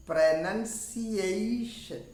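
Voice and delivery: teacher repeating pronunciation for students; model word, very slow. Shown as a demonstration. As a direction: say pronunciation slowly and clearly to the end. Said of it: "and this".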